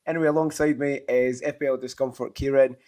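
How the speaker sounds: raspy after a night of shouting; hoarse voice. Real, not acted. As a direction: talk with a worn-out, hoarse voice. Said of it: "I kinda lost my voice".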